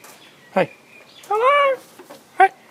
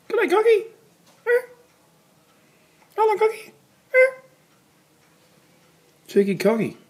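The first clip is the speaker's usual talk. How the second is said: very high, loud sing-song calls to a cockatoo; bird-talk voice; 5 dB louder than usual. Real, not acted. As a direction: call up to the parrot like talking to a pet bird. Calling to cockatoos again.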